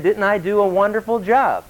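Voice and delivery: a hint of royal boasting; boastful king. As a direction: lightly play a king admiring his own work. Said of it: "looked down and said".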